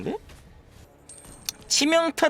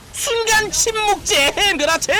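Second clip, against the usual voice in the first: excited shout; 13 semitones higher, 3 dB louder than usual. Real, not acted. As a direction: call it like a caster. Hype play-by-play of kill.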